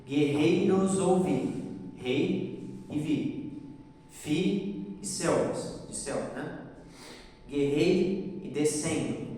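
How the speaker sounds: very slow, stretching "Guerreiros" and each strong syllable; slow syllable-by-syllable scansion; stressed syllables drawn out. Shown as a demonstration. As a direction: spell out the beats slowly, leaning on the stressed syllables. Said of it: "Vocês podem até conferir".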